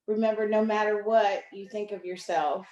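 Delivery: measured reading, pausing between lines; poem reading. Acted. Poet reading on courage and mental health to an online audience, measured poem reading. Reads prepared piece aloud.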